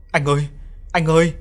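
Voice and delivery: screaming and crying. A narrator's reading. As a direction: call out to a lost husband, building. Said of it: "vừa hét vừa khóc".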